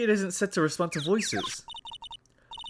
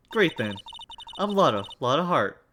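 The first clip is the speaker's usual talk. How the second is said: friendly Southern introduction; Southern US accent; 2 semitones lower, 4 dB quieter than usual. Acted. Lotta introducing herself to visitors, Southern accent. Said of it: "I know the accent".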